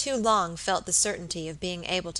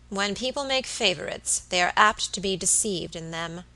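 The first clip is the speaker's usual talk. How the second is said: icy sententious. Acted. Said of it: "Miss Tonks answered with icy sententiousness".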